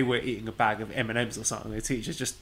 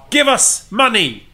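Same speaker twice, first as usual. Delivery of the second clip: louder, higher, slow begging; mock demand; 9 semitones higher, 9 dB louder, slower than usual. Host ending the podcast begging listeners for money, loud and slow. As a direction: demand it like a cheeky beggar. Cheeky plug asking for money.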